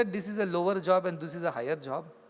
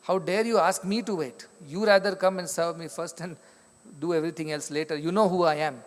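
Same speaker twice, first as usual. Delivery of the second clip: indignant retold rebuke, a touch forceful; mock outrage at being kept waiting; mildly angry; 4 dB louder than usual. Young saint scolds the woman who made him wait, mildly angry. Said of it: "He gets so angry".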